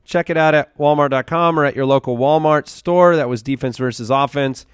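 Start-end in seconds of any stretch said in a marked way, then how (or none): 0.0-3.2 upbeat sponsor ad read. Acted. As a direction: sell it like a radio spot. Reads sponsor ad.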